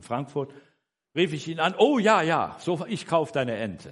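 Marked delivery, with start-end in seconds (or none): 1.8-3.9 higher, louder burst of retold enthusiasm, then easing; mock eager yes, punched at the start; eager agreement. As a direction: imitate a brother jumping at the offer. Brother eagerly agrees to buy.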